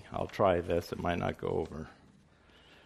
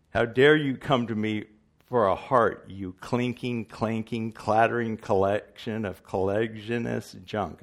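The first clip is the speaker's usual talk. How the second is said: loud booming wizard; 4 dB louder than usual. Retold or imitated. Wizard berating the Tin Man, loud and booming. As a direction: scold them like a mighty wizard. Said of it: "The wizard".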